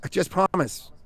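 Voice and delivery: acted plea, first words high and loud; mildly urgent plea, easing after the first burst; pleading. Mother begging a stranger to spare her child, pleading.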